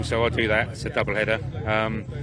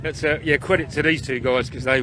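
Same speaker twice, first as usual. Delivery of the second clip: breathless after the race; panting between words; out of breath; 3 semitones higher than usual. Real, not acted. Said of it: "you look a bit out of breath".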